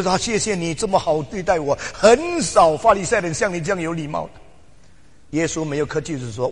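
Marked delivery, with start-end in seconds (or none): 0.2-4.3 lightly voiced courteous thanks, a bit louder; mock polite Jesus. Preacher imagining Jesus politely thanking Nicodemus. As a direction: play the gracious host, tongue in cheek.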